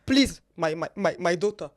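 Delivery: a hint of a pleading mom, loud and laughing; pleading mother, laughing. Mother begs her daughter to plan a wedding, pleading through laughter. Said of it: "my mom told me once".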